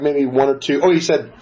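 ordinary talk

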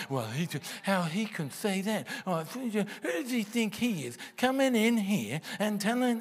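arguing inner voice. Acted. Preacher mimicking the thought that argues with him, mock-indignant. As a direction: imitate an affronted listener, pitch climbing in protest. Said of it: "the voice that's even arguing".

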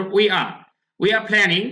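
"we are" said as wee-aa, R dropped; silent R pronunciation. Shown as a demonstration. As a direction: model "we are planning" with no R in "are". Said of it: "আমরা আর বলতে পারবো না".

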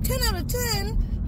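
gushing over the food; excited. Real, not acted. Excited echo of rating.

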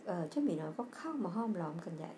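ordinary delivery

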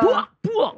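high-pitched mock beating sounds; imitated thwacks. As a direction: act out the blows landing. Imitates being hit with broomstick.

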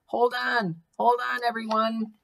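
high, drawn-out warning call; shouted warning. A narrator's reading. Baby warning the passengers as she brakes, shouted. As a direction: call out for everyone to brace. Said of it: "Baby shouted".

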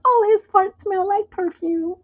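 high, slow mock swoon; swooning lover. Mocking a lovestruck girl, slow and high. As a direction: gush dreamily over nonsense.

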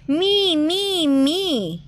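high, sing-out volunteering; eager pleading. A narrator's reading. Rabbit volunteers to be the story's hero, eager. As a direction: start high and step down on each repeat.

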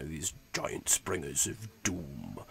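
low, soft Yorkshire accent; Yorkshire giant. Shown as a demonstration. Game master demonstrates his ancient giants, Yorkshire accent. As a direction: drop low and quiet into an old Yorkshire voice. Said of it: "I always give a Yorkshire accent".

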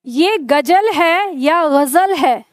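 "गजल" said very slowly twice, first with a Hindi g and j, then as Urdu ghazal with a throaty gh and a z; two ways to say a word. Shown as a demonstration. Teacher quizzing students on the Urdu sound, very slow contrasting demo. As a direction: drag out both versions of "गजल" so the gh and z can be heard against g and j. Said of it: "पहला या दूसरा?".

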